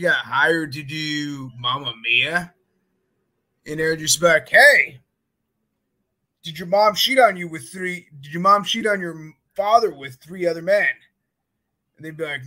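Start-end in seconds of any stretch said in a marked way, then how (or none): 4.5-10.9 loud street pitch. Retold or imitated. Pitching Mamma Mia to passersby.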